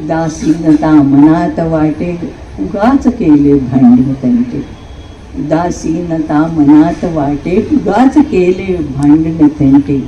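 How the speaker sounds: lightly voiced mellowed husband reciting; tender older husband. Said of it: "पुरुष अगदी हळुवार होतो".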